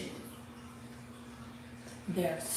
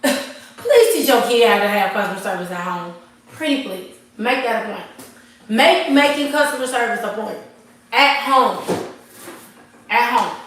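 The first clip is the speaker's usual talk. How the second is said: laughing into a louder, pleading push; fired-up plea; 3 semitones higher, 7 dB louder than usual. Real, not acted. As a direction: hammer home "at home" louder each time. Urging viewers, still fired up.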